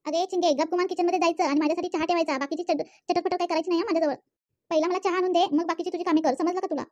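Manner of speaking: mother-in-law orders her daughter-in-law into the kitchen; commanding mother-in-law. Acted. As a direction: lay down the law.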